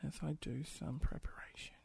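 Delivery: breathy unvoiced whisper; hushed aside while preparing. Real, not acted. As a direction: whisper it so nobody hears. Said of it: "some quality silence".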